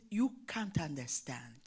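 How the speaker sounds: low, soft "You can't understand."; a hurt child mumbling low; sad quiet reply. Retold or imitated. Crying pupil answering her teacher, low and soft.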